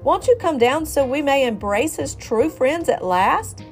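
high, loud, honeyed pitch; coaxing. Acted. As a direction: coax the rooster down. Fox luring rooster down.

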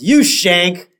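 mildly upset mock accusation; lightly acted betrayed kid; Bart. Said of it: "Bart's very upset".

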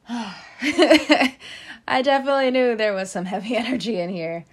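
high, loud laughing remark. Real, not acted. Laughs about heavy energy.

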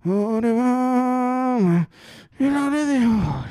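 arrastra las palabras como agotado, muy lento; zuliano gordo cansado cantando. Retold or imitated. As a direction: canta el himno sin aliento, mamado. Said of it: "Ya la tercera están". (imitación cansada y arrastrada del himno)

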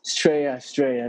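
lightly mimicked Australian slang pronunciation; imitated Aussie accent. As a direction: echo "Straya" like an Australian.

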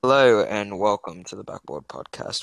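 attempted British accent, landing near Australian; a shaky stab at a British accent, drifting Australian; British accent impression. Co-host impersonating the podcast host's intro, wobbly British accent. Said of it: "in your British accent that you're gonna apparently do".

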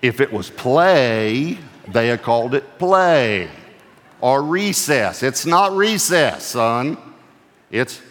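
a father slowly explaining work to his tired son; lecturing dad. Retold or imitated. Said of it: "I said to him".

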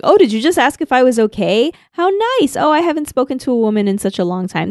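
high mock-touched janitor voice; a lightly voiced goofy janitor, flattered; a hint of a silly lonely man. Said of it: "And he's like".

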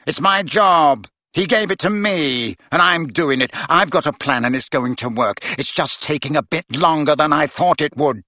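put-on defiant teen boasting his mission; rising excitement. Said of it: "Malfoy's voice had risen excitedly".

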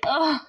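emotional groan, pushed out; overwhelmed ugh. Real, not acted. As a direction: let out an overcome "ugh". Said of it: "I'm just like".

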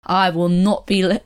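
attempted Australian accent. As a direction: have a brief, shaky go at Australian. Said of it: "oh my God, my Australian accent".

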